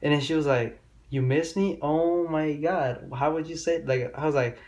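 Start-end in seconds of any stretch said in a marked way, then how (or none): 1.1-3.8 mock surprised girl.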